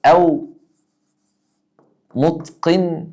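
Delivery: يا متقنون drawn out slowly; slow demo. Shown as a demonstration. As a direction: stretch the call for the class. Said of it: "آخرها واو نون". (نداء بطيء وممدود)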